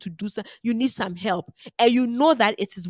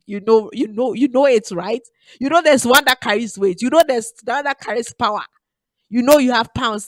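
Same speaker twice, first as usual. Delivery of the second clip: preaching louder; 3 semitones higher, 6 dB louder than usual. Real, not acted. Emphatic preaching run.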